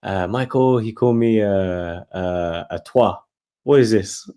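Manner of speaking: rough imitation of a French Canadian accent; puzzled question in a badly faked French Canadian accent; the speaker's French Canadian accent. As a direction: have a poor go at French Canadian. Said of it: "I can't do the accent, I'm so bad".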